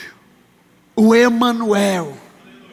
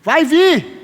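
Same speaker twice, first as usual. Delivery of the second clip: prophetic declaration; 4 semitones higher than usual. Shown as a demonstration. Preacher prophesying to his congregation, solemn proclamation. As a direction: proclaim it as a prophecy over them. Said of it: "o pastor tá profetizando".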